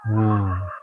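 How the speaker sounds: ghostly wail. Acted. Ghost answers with a cry.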